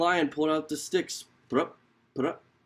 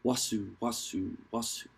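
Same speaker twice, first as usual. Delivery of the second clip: slithering sound; 6 semitones lower, 7 dB quieter than usual. A narrator's reading. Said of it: "came slithering".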